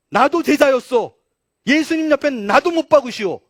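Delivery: loud, high, emphatic proclamation; bold declaration. Acted. Preacher voicing what Peter should have declared, bold. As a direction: declare it at full voice.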